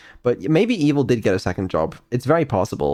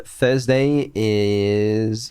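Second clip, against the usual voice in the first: very slow, stretched announcer delivery; drawn-out announcement; 3 semitones higher, much slower than usual. Acted. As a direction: draw out each word dramatically. Announcing Evil stream dramatically.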